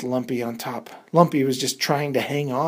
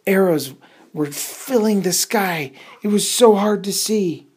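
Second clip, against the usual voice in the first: higher, louder, racing excitement; excited storytelling; 8 semitones higher, 8 dB louder than usual. A narrator's reading. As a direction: build the danger up loud. Arrows filling the sky, tension.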